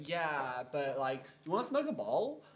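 put-on frat bro American accent, pitch jumping up at the end; lazy stoner frat boy in an American accent. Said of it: "Impeccable American accent".

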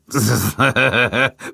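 coarse lecherous chuckle; rough laugh. A narrator's reading.

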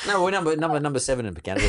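joking through laughter. Real, not acted.

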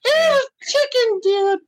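very high, slow falsetto granny voice; Mrs. Doubtfire impression. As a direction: drag out each word in a shrill old-lady falsetto. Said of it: "you sound like that Robin Williams movie".

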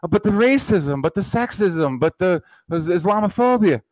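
high whiny listing of grievances; mocking opponents. Mocking liberal talking points with a high whine. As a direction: whine each grievance like a caricature. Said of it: "it's all emotional".

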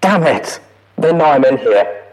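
loud, frantic trapped voice; trapped and terrified, loud; panicked recording. A narrator's reading. Mare trapped, panicked log.

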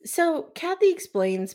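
ordinary delivery

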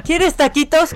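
doting mother. Retold or imitated. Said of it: "atenta a ver qué voy a comer".

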